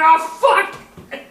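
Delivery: high, loud cry breaking into laughter; dismayed shout. Retold or imitated. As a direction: yell it in sudden mock panic. Retold moment of sudden realization.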